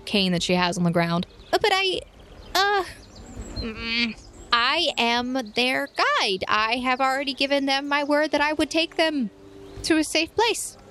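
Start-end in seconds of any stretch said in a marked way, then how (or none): 1.5-10.8 高音少女恳求长老; 像个紧张的小女孩那样恳求; high pleading girl. Acted. GM as Cece pleading.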